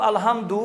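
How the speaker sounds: الحمد said "alhamduu", last vowel stretched; mistaken long ending. Shown as a demonstration. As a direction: lengthen the end of الحمد into "duu". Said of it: "غلطی سے پڑھتا".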